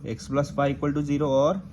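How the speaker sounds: very slow, word by word for writing down; slow dictation. Shown as a demonstration. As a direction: dictate slowly so students can copy. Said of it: "लिख लो". (धीरे-धीरे लिखवाते हुए)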